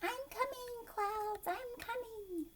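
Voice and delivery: high, eager raindrop voice; a tiny drop calling out happily; excited little raindrop. Pretend. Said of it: "He's like".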